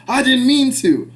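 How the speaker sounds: high, loud and slow mock yell. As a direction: yell it out like the frantic man. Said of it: "then he yells out".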